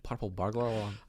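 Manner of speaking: "Purple burglar alarm" in a rough Scottish accent, rolled r's. Shown as a demonstration. Friend tries the line in a Scottish accent. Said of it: "in a Scottish accent".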